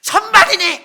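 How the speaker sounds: very loud, high-pitched battle cry; hammed-up heroic shout; mock bold proclamation. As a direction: belt it out as if full of great faith. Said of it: "우리가 정말 대단한 믿음 가진 것 같아요".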